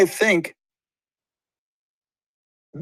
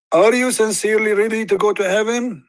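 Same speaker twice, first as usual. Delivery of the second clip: raised, lilting preacher's question; the Prophet asking; 6 semitones higher than usual. Retold or imitated. Retelling a Hadith to viewers, voicing the Prophet's lofty question. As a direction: ask it like a grand solemn test. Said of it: "he said".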